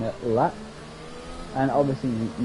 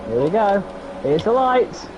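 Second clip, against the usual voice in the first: excited; 6 semitones higher, 3 dB louder than usual. Real, not acted. Race start, lights coming on.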